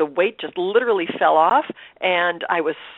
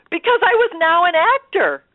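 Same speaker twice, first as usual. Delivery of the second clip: tearful; 11 semitones higher, 4 dB louder than usual. Real, not acted. Tearful joy at becoming actor.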